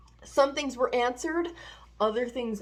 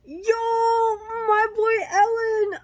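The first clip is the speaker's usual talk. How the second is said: high, loud hype; excited cheer; 10 semitones higher, 6 dB louder, slower than usual. Real, not acted. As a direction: cheer like a proud fan. Cheering for a character.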